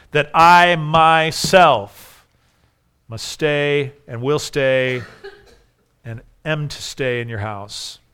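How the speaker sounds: that I myself must stay, will stay, am to stay, drawn out very slowly; slow, deliberate stress on myself, will and am; strong emphasis. Shown as a demonstration. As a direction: stretch every stay slowly and weigh myself. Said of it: "Strong expression".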